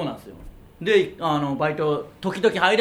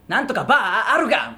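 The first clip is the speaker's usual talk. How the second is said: louder, slow Tsuyama-dialect gag line; 5 semitones higher, 3 dB louder than usual. Retold or imitated. Comedian imitating his partner's unintelligible gag, in Tsuyama dialect. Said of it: "ボケを津山弁で言われた時".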